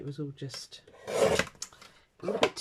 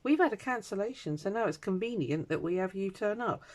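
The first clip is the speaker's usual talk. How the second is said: high, mocking singsong of the organisers; 7 semitones higher than usual. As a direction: sneer at them with a much higher mock voice. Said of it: "they suddenly went".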